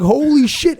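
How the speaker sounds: high, loud stunned outburst; retold shocked exclamation. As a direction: reenact blurting it out in alarm. Retells reaction to friend's scream.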